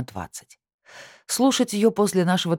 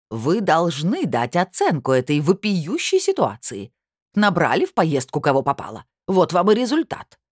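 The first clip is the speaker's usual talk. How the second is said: indignant; 2 semitones higher, 3 dB louder than usual. Acted. Aurora demands judgment.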